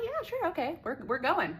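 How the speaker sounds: squealing high excited agreement; excited yes. Retold or imitated. Invited to his hotel, she agrees in a high squeal. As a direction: gush it out, thrilled.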